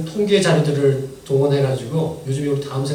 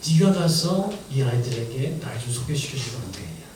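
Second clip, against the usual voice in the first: voice of the Lord; 2 semitones lower than usual. Retold or imitated. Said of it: "주님께서 말씀하신 것 같았습니다".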